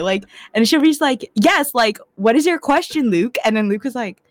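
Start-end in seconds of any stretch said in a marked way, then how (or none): 1.4-3.4 high, peppy mock presenter; Emily, over-projected. Show's heroine calling on a colleague, over-projected mock voice. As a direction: project brightly, as if addressing a meeting. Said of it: "Why are you yelling".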